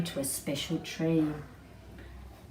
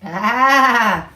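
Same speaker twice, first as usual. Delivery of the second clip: sheep sound; 5 semitones higher, 12 dB louder than usual. Acted. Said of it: "said Missus Sheep".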